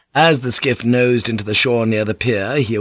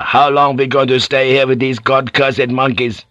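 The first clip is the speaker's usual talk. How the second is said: insistent, higher-pitched complaint; louder demand; 4 semitones higher, 4 dB louder than usual. Acted. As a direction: raise the voice in exasperation. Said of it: "Ginsel asked louder".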